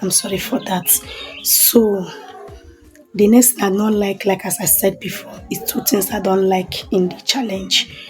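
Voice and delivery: hushed voice during power cut; quiet. Real, not acted. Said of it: "if you hear any noise in background".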